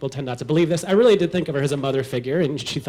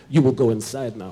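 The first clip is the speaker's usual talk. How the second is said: stern Ukrainian grandpa; 4 semitones lower than usual. Retold or imitated. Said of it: "points his head to the sauna and says".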